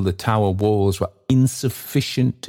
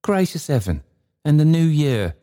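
high-pitched, horrified exclamation; alarmed old man; 9 semitones higher than usual. Acted. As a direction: ask aghast, voice pitched up. Trotty horrified at his death.

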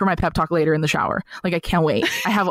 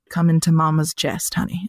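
a hint of a soothing Southern mama, a bit lower; lightly voiced mama comforting her baby; 4 semitones lower than usual. Comforting herself like a Southern mama, lightly voiced. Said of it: "I go so Southern".

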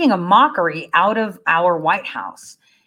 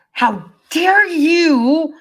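angry tirade; 2 semitones higher, slower than usual. Retold or imitated. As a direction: drag out each how dare you. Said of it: "this exertion of anger".

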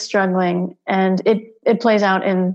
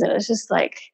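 ordinary talk, nothing marked

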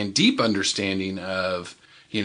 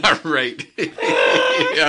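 laughing through the words; breathy laugh while answering; 6 semitones higher, 4 dB louder, much slower than usual. Real, not acted. Laughs at husband mating call joke.

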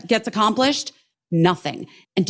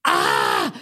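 drawn-out exasperated "ah"; frustrated groan. Retold or imitated. Customer venting at the rental counter, wordless groan. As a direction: let out an imitated frustrated noise. Imitates her frustrated inner reaction.

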